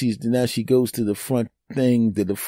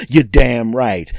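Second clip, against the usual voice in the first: slow, louder You're damn right; louder brag; 6 dB louder, slower than usual. Real, not acted. Boasting to viewers, slow and loud You're damn right.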